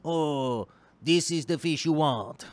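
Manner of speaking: lightly voiced fish making its pitch; a hint of a put-on voice for the perfect fish; talking fish. Guppy keeper imagining the ideal fish speaking up, lightly voiced talking fish. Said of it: "the one that says".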